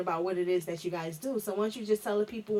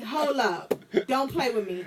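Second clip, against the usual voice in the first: retold warning; 3 semitones higher, slower than usual. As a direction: warn a friend off, playfully indignant. Retells warning her friend.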